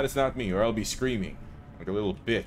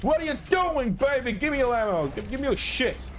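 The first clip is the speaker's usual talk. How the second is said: squeaky falsetto taunt, much higher; mock high voice; 10 semitones higher than usual. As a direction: tease the demons in a silly high falsetto. Taunting enemies mid-fight.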